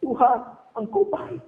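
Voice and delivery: mock weeping while still praising; imitated tearful prayer. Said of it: "Saya terus semua menangis". (pura-pura berdoa sambil menangis, pelan)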